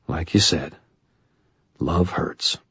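quiet, sorrowful; soft and sad. A narrator's reading. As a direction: say it softly, resigned. Sad ending line.

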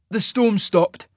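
coolly. A narrator's reading. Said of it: "he stated coolly".

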